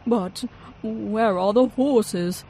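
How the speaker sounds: put-on baffled old-timer asking; inventor's voice. A narrator's reading. Inventor looking for horses, loud and slow.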